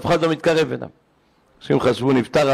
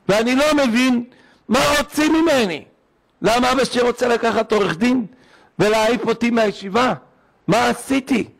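put-on pleading boy; 7 semitones higher than usual.

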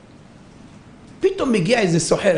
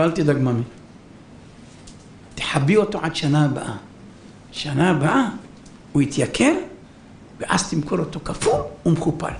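reassuring rabbi; 4 semitones lower, 3 dB quieter than usual. Acted. Dying rabbi calms the merchant.

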